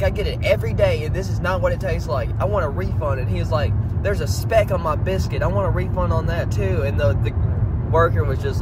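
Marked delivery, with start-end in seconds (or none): 0.0-6.8 higher whiny complaining customer voice; mocking whiny customer. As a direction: whine like a fussy customer. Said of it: "He's like".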